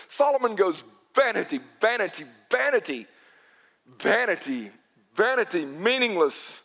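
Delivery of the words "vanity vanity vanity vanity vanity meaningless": each "vanity" set apart and stressed, then "meaningless"; emphatic repetition. Retold or imitated. Preacher quotes Solomon repeating the word, emphatic repetition. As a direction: hammer "vanity" over and over as separate beats. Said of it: "word will be repeated for emphasis".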